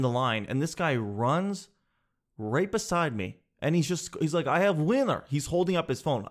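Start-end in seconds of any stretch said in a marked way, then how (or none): 4.5-5.2 higher-pitched imitation of an excited winner; mock excited yell. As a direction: announce the win in a put-on voice. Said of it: "He's just yelling the whole time".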